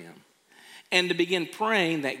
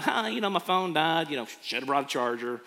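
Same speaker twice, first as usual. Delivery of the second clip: casual; faster than usual. Acted. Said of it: "Why so casual and be like".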